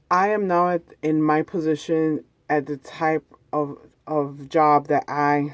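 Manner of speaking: talking while stretching hamstrings; strained mid-stretch. Real, not acted. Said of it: "sorry as I'm stretching my hamstrings".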